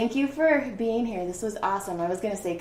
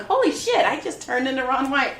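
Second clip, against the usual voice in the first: amazed; 4 semitones higher than usual. Retold or imitated. Retelling her amazement.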